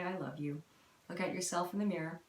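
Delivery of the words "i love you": tender self-affirmation. Shown as a demonstration. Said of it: "and say".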